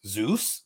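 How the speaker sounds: ZEUS said as a puzzled question; questioning tune on Zeus. Retold or imitated. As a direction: put a question mark on "Zeus". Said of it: "question mark".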